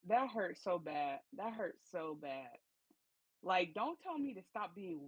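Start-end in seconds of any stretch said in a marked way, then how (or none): 0.1-1.2 slow, stretched-out wince; drawn-out sympathy. Real, not acted. Co-host feeling for the rejected man, slow pained drawl. 1.4-2.5 slow, softer pained echo; softer repeat. Real, not acted. Co-host repeating her sympathy for the man, slow and softer. Reacting to the rejection story.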